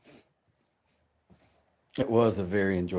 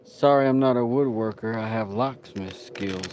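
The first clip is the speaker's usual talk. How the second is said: put-on rubbish British accent; 4 dB louder than usual. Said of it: "That's a rubbish accent".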